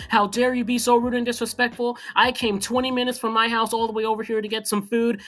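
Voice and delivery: mock screaming. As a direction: retell an outraged customer's tirade, trailing into rah-rah noise. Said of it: "legitimately screaming at the cashier".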